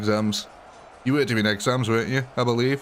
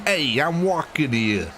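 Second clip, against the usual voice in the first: drawn-out, higher mob boss shout-out; 4 semitones higher, slower than usual. Acted. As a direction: play a swaggering mobster, stretching the words. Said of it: "put mob bosses in this".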